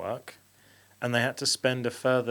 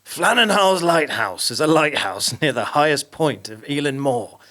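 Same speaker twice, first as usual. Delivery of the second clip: dramatic reading; 5 dB louder than usual. Pretend. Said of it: "I'll do it in that style of reading".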